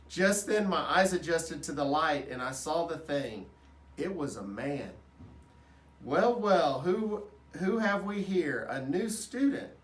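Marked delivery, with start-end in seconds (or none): 6.0-9.7 a hearty, booming man's greeting; booming janitor voice. A narrator's reading. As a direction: boom it out like a big friendly man. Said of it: "a voice boomed".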